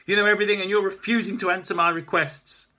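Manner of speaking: enraged artist snapping back; spitting anger. Acted. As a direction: spit the words out at him. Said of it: "She turns and spits out".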